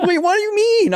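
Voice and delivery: very high, laughing squeal; high laughing incredulous protest; laughing disbelief. Retold or imitated. Shocked ship stays put.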